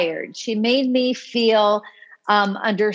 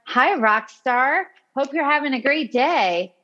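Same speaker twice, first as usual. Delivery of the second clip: high-energy greeting; 4 semitones higher than usual. Retold or imitated. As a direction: stretch the greeting out with cheery energy. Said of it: "same kind of high energy".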